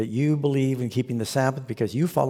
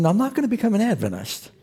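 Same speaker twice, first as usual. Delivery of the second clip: quoting pastor; 8 semitones higher, faster than usual. Retold or imitated. Pastor quoted, high voice.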